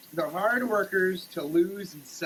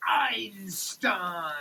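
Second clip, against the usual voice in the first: whispered answer. Acted. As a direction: answer in a hushed whisper, like a secret. Whispered punchline after "Proof?.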